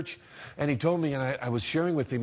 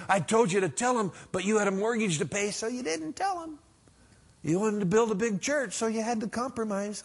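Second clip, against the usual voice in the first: higher-pitched chiding; acted telling-off, pitched up; mock reproach; 7 semitones higher than usual. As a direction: scold with rising pitch. God's imagined reproach at judgment.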